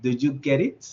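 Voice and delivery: the T of "get" sounded and linked to "it"; T pronounced before vowel. Shown as a demonstration. Teacher explaining the other sentence, T of "get" kept. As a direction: keep the T in "get it". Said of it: "en el segundo caso sería".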